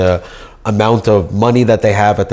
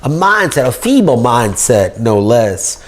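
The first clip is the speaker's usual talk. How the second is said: mock Southern accent; 3 semitones higher than usual. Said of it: "talk in this nasally Jew Southern accent".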